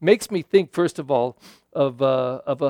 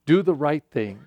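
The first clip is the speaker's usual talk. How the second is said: ordinary delivery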